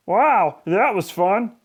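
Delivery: put-on lightly breathless kid; a touch breathless. A narrator's reading. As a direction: say it winded from play. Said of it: "said the new kid breathlessly".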